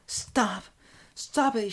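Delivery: high, breath-edged plea; an urgent little high cry to stop; quiet plea. Acted. Character pulling away from the speaker, pleading. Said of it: "in a quiet voice".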